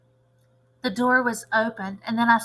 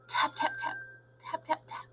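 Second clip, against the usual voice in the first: soft tapping; 11 dB quieter than usual. A narrator's reading.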